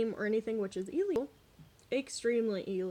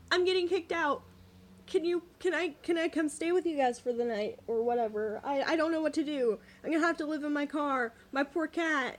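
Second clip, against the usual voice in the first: higher-pitched imitation of a distraught friend; mock tearful pleading; 4 semitones higher, 4 dB louder than usual. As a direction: retell a bawling plea, worked up but without real sobs. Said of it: "she's in tears, bawling".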